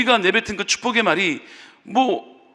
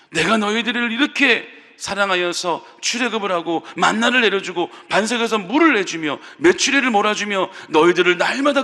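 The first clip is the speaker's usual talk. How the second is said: God's stern rebuke. Retold or imitated. God rebukes the grumbling people.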